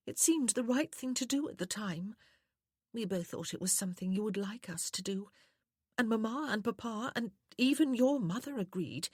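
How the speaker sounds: high-pitched, sweetly tearful lady; soft, sweet woman. A narrator's reading. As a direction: explain yourself in a high, sweet feminine voice. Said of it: "how soft and sweet her voice was".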